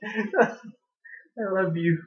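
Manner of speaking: tender to dog. Real, not acted. Hugging her dog.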